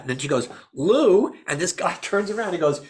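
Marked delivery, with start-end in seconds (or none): 0.7-1.3 high, louder call of a name; imitating a woman summoning her boyfriend. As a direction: call over to someone at a party. Calling her boyfriend across a party.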